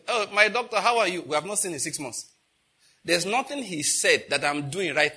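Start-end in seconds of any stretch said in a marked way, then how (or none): 0.1-1.2 mock cheerful greeting. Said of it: "I wave and say".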